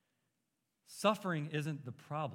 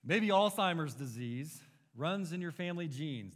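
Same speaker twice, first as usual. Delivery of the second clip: mock-upbeat quote with an audible grin; big smile. Preacher quoting a prosperity teacher to the congregation, big smile. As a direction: read it out through a big smile. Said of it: "With a big smile".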